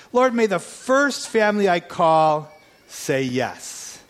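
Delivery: slow prayer. Retold or imitated. Retold prayer, repeated slowly.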